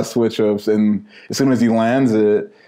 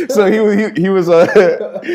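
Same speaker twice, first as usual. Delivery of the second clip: talking through laughter; laughing; 9 semitones higher, 4 dB louder than usual. Real, not acted. Storyteller laughing after naming Mikkel. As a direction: still giggling as you start the story. Still laughing while telling.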